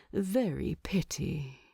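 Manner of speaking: words slipping away into sleep; sleepy murmur; drowsy whisper. Acted. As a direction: fade into a whisper. Bilbo falling asleep.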